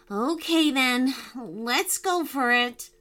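a touch of nerves, slowing down; slightly nervous. Acted. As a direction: agree hesitantly, drawing out the end. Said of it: "in a slightly nervous voice".

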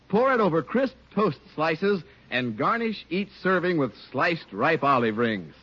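ordinary talk

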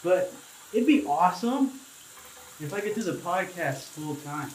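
echoey bathroom voice; speaking under running water; talking in the shower. Real, not acted. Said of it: "It probably sounds like I'm in the shower".

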